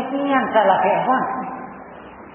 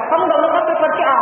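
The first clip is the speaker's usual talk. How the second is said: quick quoted warning; 5 semitones higher, faster than usual. Retold or imitated. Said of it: "Ada orang ketika".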